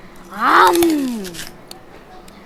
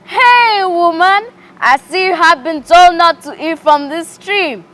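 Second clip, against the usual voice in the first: hissing tempter, pitched high and loud; a sly snake luring the woman, higher and louder; 6 semitones higher, 6 dB louder than usual. Acted. Snake tempts the woman in a high, loud, sly voice. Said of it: "whispered to her".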